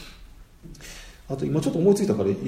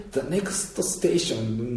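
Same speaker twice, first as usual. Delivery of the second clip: The next station in polished, soft, slow announcer English; a slow, smooth train announcement; beautiful announcer English; 4 dB quieter, much slower than usual. Retold or imitated. Speaker imitating the train's polished English announcement. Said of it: "すごく綺麗な発音".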